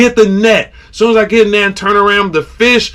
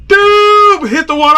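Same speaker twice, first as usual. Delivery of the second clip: high, louder "dude"; excited yelp; 14 semitones higher, 4 dB louder than usual. Retold or imitated. Angler watching his biggest fish leap, excited yelp. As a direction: yelp it at the jump.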